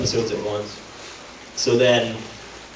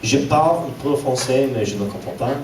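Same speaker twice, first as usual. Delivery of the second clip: mock French; 2 semitones higher than usual. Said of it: "It's gibberish".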